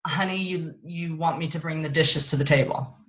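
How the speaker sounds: neutral mirroring tone, calm and even; just reflect back what was said, calmly; calm reflection. Shown as a demonstration. Wife calmly mirroring husband's request back to him. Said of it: "I could say something like".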